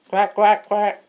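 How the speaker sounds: high, loud mock quacking; duck quack. Mister Duckface quacking back at the host, hammed-up.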